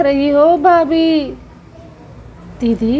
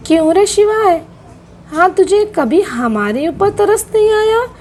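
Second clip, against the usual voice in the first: angry rebuke; 5 semitones higher than usual. Acted. Aunt rebukes Shivay.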